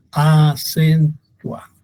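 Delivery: "acentua" split slowly into even syllables; a, cen, tua, none standing out; measured, level "acentua"; unstressed syllables. Shown as a demonstration. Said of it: "No tiene un sonido fuerte".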